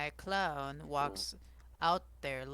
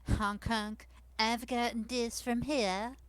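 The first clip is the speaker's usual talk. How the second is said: put-on lightly higher French-accented clown; 4 semitones higher than usual. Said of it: "I use my default voice in the French accent".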